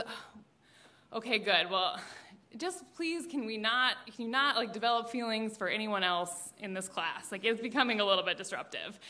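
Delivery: soft, hesitant plea; weary mom. Acted. Mom asking daughter to stop crushes, soft and weary. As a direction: ask gently, picking the words with care. Mom's weary request, acted.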